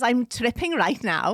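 lilting attempt at a Welsh accent; put-on Welsh accent. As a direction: read it out as if Welsh.

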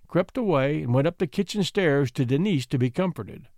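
ordinary delivery, nothing marked

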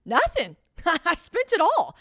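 high, loud confession slowed by laughter; owning up sheepishly through a laugh. Retold or imitated. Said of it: "I was like".

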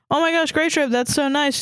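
high, gushing squeal at no extra volume; mild mock scream. A narrator's reading. Flattered kitten answers a proposal, high mock scream. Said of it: "Starkid screamed".

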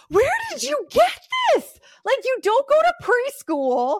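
high, loud laughing question; amused shocked adults; laughing disbelief. Retold or imitated. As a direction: ask through laughter.

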